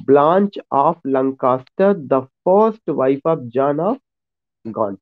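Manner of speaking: slow and deliberate, each name spaced out; slow dictation. Shown as a demonstration. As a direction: spell it out slowly for notes. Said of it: "आपको ये दो point ध्यान में रखना है".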